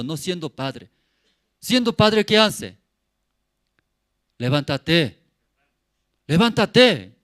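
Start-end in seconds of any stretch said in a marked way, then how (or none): 4.4-5.2 firm fatherly call, a bit louder; father's wake-up call. Acted. Father waking his son. 6.3-7.1 louder, higher fatherly command; insistent wake-up shout. Acted. Father repeats wake-up call louder.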